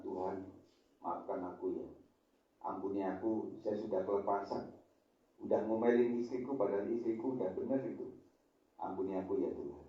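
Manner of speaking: soft, hushed plea to God; a husband quietly begging forgiveness; contrite prayer. Pretend.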